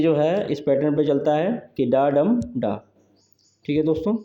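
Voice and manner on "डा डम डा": "डा डम डा" as three separate beats, unstressed-stressed-unstressed; rhythm demo. Shown as a demonstration. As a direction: beat out "डा डम डा" with the middle beat stressed. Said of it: "यानी unstressed, stressed और unstressed".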